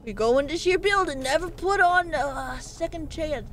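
mock country-local accent; put-on country accent. Streamer playfully guides viewers into the building, country accent. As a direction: give advice in a folksy country accent. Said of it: "putting on an accent".

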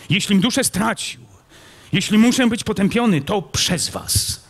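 vehement outburst. A narrator's reading. Kmicic shouting his accusation at the prince, vehement. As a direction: fling the blame at him. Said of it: "zawołał gwałtownie Kmicic".

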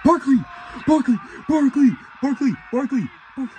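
loud, high shouts of a name; rapid repeated yells, cheering him on; shouting his name. Real, not acted. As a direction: yell the player's name at the screen. Cheering a running back on.

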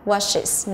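"washes" said as wash-is; two syllables in "washes", ending in "is". Shown as a demonstration. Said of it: "nó là âm is".

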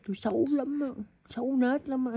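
teasing mock baby talk; playful baby's voice. Mother voices her baby.

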